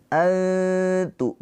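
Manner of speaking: high, held "Antu", tongue hovering near t; ikhfa, hidden n. Shown as a demonstration. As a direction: chant "Antu" with a slight gap at the tongue. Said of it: "diberikan celah sedikit".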